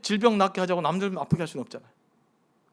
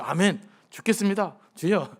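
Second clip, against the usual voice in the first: mock pious amen. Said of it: "막 그럴 때".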